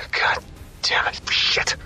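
sigh, then curse under your breath; a defeated whispered curse; frustrated whisper. Acted. Soldier after a setback, muttered curse in a whisper.

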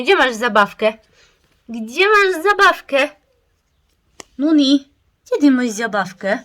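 high, loud sing-song question. Real, not acted. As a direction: coax the puppy to find its toy. Asking puppy for its toy. (zdrabniający głos do psa)

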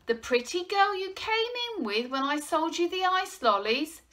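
loud, high, delighted cooing; animated, sing-out curiosity; bright teasing. A narrator's reading. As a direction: tease with nosy delight. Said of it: "said the newsagent brightly".

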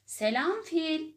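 high, loud, slow roaring greeting; tiger's roar. A narrator's reading. Tiger startling the elephant from behind, roaring loud. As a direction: boom it out like a big tiger. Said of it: "diye kükredi kaplan".

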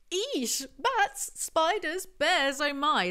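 high, loud ditzy squeal; mock Zoe voice. Mimicking how Zoe really talks, high squeaky mock fright. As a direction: squeal it like a scared girl. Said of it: "She talks like".

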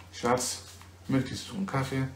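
soft, unhurried model question; easy, measured example for a learner; normal conversational speed. Shown as a demonstration. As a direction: ask it quietly at an everyday pace. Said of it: "also in dieser Geschwindigkeit sagst du ihm".

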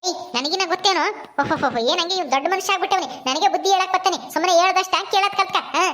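mildly sarcastic granny scolding; lightly voiced scolding grandmother. Grandmother mocks Ramu for advising her, mildly scolding. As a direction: put the cheeky boy in his place.

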